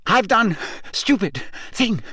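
high, laboured, broken confession; breathed out. A narrator's reading. Crazed man confessing to Harry, breathed in high bursts. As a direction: push the words out with effort. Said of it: "Mister Crouch breathed".

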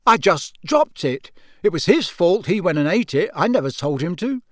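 put-on a teenage prankster shrugging it off; cheeky twin. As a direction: play it innocent with a grin. Fred defends himself, grinning.

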